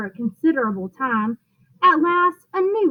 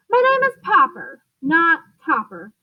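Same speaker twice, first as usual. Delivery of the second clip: mild mock shout; 3 semitones higher than usual. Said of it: "shouted Mister Popper".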